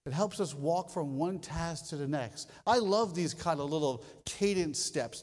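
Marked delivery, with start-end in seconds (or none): none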